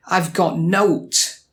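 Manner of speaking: slow Yorkshire "nowt" said as "note"; Sheffield Yorkshire. Shown as a demonstration. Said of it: "you'll probably hear oat and note".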